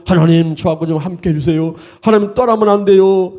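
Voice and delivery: building tearful plea, climbing high at the end; imploring prayer rising into a thin, crying call; pleading prayer. Acted. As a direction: act out begging God not to leave. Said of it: "이러면서 그냥 하나님을 더 의지하게".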